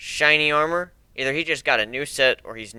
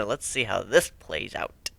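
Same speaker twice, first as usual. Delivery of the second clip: whisper; 5 semitones lower, 8 dB quieter, slower than usual. Acted. Aside to crew.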